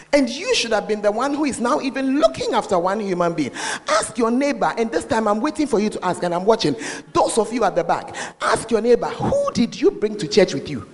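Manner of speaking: muffled behind a mask; through a face mask. Real, not acted. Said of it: "I just mumble behind the mask".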